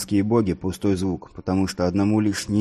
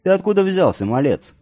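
a higher, startled call of surprise; startled challenge; 10 semitones higher, 4 dB louder than usual. A narrator's reading. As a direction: jump at the sudden stranger. Younger brother challenges stranger.

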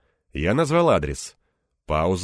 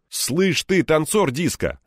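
louder, mocking jab; scoffing; 9 semitones higher, 4 dB louder, slower than usual. A narrator's reading. Egor mocking his friend's complaint, scoffing. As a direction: scoff at him teasingly. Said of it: "хмыкнул я".

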